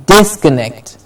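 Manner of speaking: "disconnect" with weight on DIS; falling "disconnect", strong opening DIS; stress on DIS. Shown as a demonstration. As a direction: say "disconnect" hitting the first syllable. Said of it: "Dis gets the stress".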